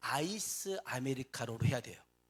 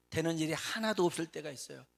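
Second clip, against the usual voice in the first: ordinary talk, nothing marked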